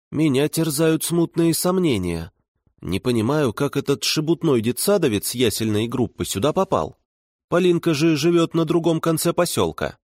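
a lightly voiced worried babushka; old woman voice. Voices Baba Masha.

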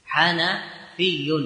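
drawn out carefully; slow demonstration. Shown as a demonstration. Teacher repeating the answer to students, slowly. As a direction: stretch the word for dictation. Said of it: "فتقول".

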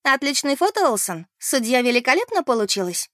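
called out loudly across shop; loud shout-out. Acted. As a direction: shout it to the whole bakery. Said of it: "громко выкрикнув на всю пекарню". (громкий выкрик на всю пекарню)

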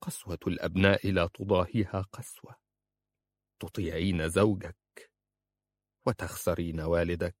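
restrained hurt, close to tears; tearful reproach. A narrator's reading. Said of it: "وعيناه ممتلئتان بالدموع". (عتاب حزين مكتوم الدموع)

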